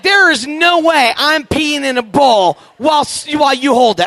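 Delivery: flat no to mom's bowl plan; hammed-up outrage; indignant refusal. Refusing mom loudly.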